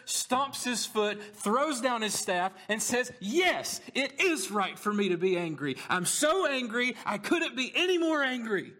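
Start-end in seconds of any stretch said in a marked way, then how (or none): 3.2-8.7 put-on higher, whiny sulking child voice; petulant child talking back, pitched up; pouting child. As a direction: answer like a stomping, sulky kid. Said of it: "in the way a pouting child would answer".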